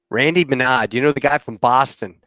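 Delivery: imitated Boston accent, dropped R's. Co-host recalls a guy from Boston, imitated Boston accent. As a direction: lightly put on a Boston accent. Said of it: "he talked like that".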